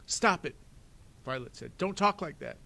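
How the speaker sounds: loud, high distressed plea; upset outcry. Acted. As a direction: cry out to make him stop. Violet pleading.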